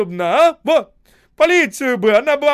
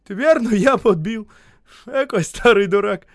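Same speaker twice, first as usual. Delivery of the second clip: high, loud, broken penitence; tearful contrite babbling; 10 semitones higher, 11 dB louder than usual. A narrator's reading. Осип apologising to the men, guilty tearful babbling. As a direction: stammer apologies, half laughing, half weeping. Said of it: "стал бормотать".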